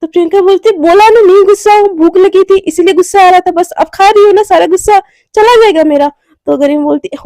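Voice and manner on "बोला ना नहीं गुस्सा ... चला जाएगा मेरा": mildly shouted irritation, higher pitch; annoyed raised voice. Acted. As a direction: snap back, a touch louder. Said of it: "चिल्ला क्यों रही हो?".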